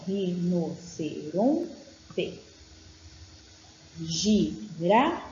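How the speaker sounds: slow, clear reading of the word list; careful dictation. Shown as a demonstration. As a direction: read out each word as a dictation. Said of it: "Então, olha".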